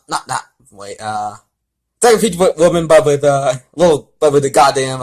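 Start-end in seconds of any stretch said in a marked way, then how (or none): 2.0-5.0 higher, louder, exasperated; worked up rant. Real, not acted. Reader ranting about the fanfic, worked up. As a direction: spit it out, fed up.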